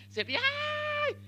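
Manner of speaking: a high, startled mock shriek of fright. Pastor mimics recruits frightened by plastic cockroaches, high mock shriek. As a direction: squeal like a scared recruit, in fun.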